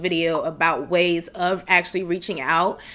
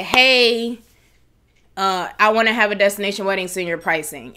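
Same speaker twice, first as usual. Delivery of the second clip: curt request. Retold or imitated. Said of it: "it's just like a".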